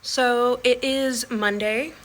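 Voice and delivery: slow careful date; slowly, getting the date right. Real, not acted. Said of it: "I almost said".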